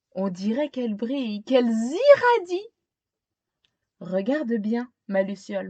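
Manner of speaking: put-on gentle read-aloud narration for a young child; storybook reading. A narrator's reading. Teacher reading a picture book to a child, storytelling voice. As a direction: tell it like a bedtime picture book.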